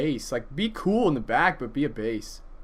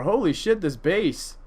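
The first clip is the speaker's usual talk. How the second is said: mock excitement; 4 semitones higher than usual.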